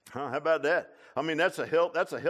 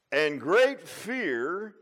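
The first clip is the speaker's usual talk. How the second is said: preached scripture; 5 semitones higher, 10 dB louder, much slower than usual. Acted.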